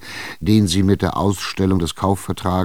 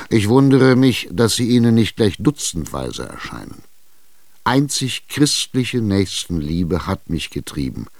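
louder, furious cursing; 3 dB louder than usual. Acted. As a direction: spit out the curses. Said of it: "was für Flüche du ausstößt". (Tschitschikow flucht wütend auf die Witwe, lauter)

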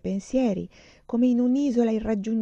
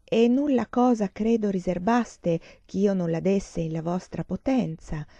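verse recitation. A narrator's reading. Professor quotes a favourite stanza to the girl, verse recitation. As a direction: recite the sonnet line slowly and deliberately. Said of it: "dove dice".

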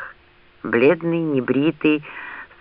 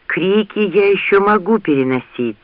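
higher, strained, faltering delivery; breaking voice; 6 semitones higher than usual. A narrator's reading. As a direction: speak as if the voice may give out. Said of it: "прерывающимся голосом сказал он".

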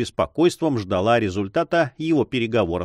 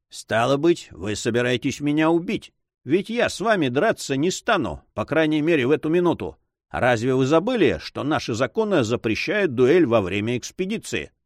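lightly voiced, higher, superior cavalier; slightly raised, haughty character voice; taunting cavalier; 4 semitones higher than usual. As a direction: lecture the challenger with cool disdain.

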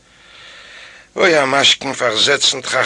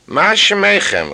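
called out; 8 semitones higher, 4 dB louder, slower than usual. Acted. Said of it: "rief sich an zu mir".

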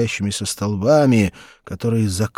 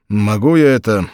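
calm; 6 dB louder than usual. A narrator's reading. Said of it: "спокойно спросил астрогатор".

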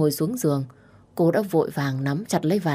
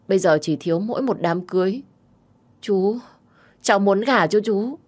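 higher, eager arguing voice; insistent young woman in love; 4 semitones higher than usual. Acted. Girl argues she can marry her uncle, insistent. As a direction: press your case earnestly.

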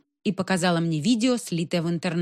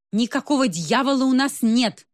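higher-pitched, firm angry denial; understated wrath, pitch raised; 5 semitones higher than usual. A narrator's reading. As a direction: deny it with mild official anger. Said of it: "гневно говорила заведующая".

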